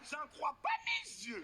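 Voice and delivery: high-pitched, slow mock disbelief; hammed-up shocked Frenchwoman; astonished white woman. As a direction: squeal it in exaggerated amazement. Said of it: "elles hallucinent tout le temps".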